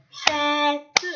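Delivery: fête slowly split as fê-te; syllable by syllable. Shown as a demonstration. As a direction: tap out fête with the final e as its own syllable. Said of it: "Tapez le mot".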